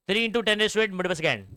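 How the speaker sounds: slow, word-by-word value; slow dictation. Shown as a demonstration. Teacher reads the speed of light slowly for notes. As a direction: read the number out slowly.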